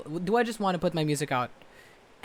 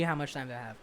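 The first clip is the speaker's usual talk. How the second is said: softer, lower muttered repeat; quiet deadpan repeat; 4 semitones lower, 7 dB quieter, faster than usual. Real, not acted. Vlogger repeating the question quietly to himself, deadpan. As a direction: drop it down and say it again under your breath.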